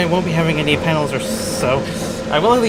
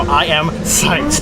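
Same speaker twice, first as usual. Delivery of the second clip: psyched; much slower than usual. Real, not acted. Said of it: "as you can probably tell right now".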